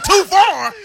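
high, loud incredulous yell; indignant shout. Retold or imitated. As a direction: throw the words back at them.

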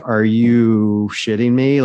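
slow, incredulous imitation; Canadian guard's disbelief. Canadian guard answers kitchen manager, slowly incredulous. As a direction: draw each word out in disbelief. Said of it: "literally said it just like that".

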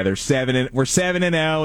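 put-on high, excited Philly fan accent. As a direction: hype it like a Philly diehard. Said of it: "it is a hilarious accent".

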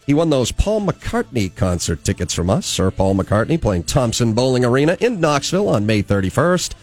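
lively morning-radio patter with swooping emphasis; radio host announcing. Acted. Host plugging a ticket giveaway and introducing a guest, radio announcer delivery. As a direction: punch the key words like a radio presenter.

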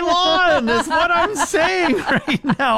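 put-on high, slow cranky old man; grumpy old man. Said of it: "Old man shaking his fist".

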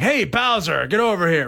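mock hero calling out a villain; Mario yelling. Shown as a demonstration. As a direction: demo a tough cartoon holler. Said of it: "if I need to, like".

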